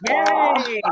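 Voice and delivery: high, loud "yay"; excited cheer. Real, not acted. Co-host cheers as the guest is introduced, excited.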